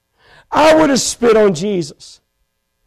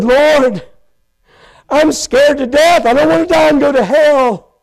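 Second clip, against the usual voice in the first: retold heartfelt plea, pitch slightly raised; earnest prayer; 3 semitones higher than usual. New convert praying to the Lord in the car, pleading. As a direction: cry out to God, reliving the moment. Retells his desperate prayer of salvation.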